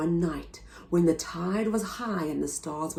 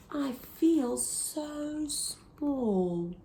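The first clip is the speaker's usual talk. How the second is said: small snail voice; 6 semitones higher, 4 dB quieter, much slower than usual. A narrator's reading. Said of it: "And she said to the whale".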